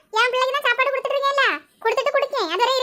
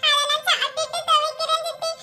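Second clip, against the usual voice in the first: put-on pleading child; 4 semitones higher than usual. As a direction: plead sweetly for food. Child pleads after finishing chores. (வேலை முடித்து கெஞ்சும் சிறுமி)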